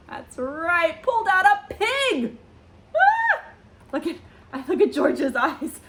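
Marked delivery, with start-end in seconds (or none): 1.0-2.4 high, delighted storybook reveal; playful ta-da on the last word; excited reveal. A narrator's reading. Big reveal to children. 3.0-3.4 short, very high "Ah!"; playful startled squeal; mock squeal. Reacts to pig pulled out.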